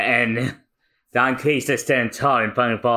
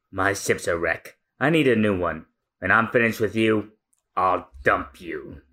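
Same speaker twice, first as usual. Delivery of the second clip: Don Krieg voice; 8 semitones lower than usual. Acted. Co-host reading Krieg's threat to the chefs, low and menacing. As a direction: growl it low like a pirate captain.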